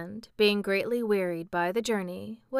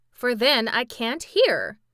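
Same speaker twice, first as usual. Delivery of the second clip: remonstrating; 4 semitones higher, 7 dB louder than usual. A narrator's reading. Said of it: "remonstrated the sawhorse".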